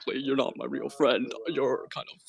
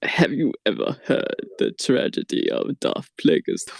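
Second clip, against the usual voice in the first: Palpatine impression; 2 semitones lower than usual. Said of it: "voices mixed up".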